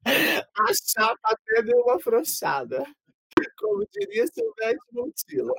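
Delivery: high, squeaky words through laughter; laughing while talking. Real, not acted. Teasing a friend who fumbled the title, cracking up. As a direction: barely get the words out for laughing.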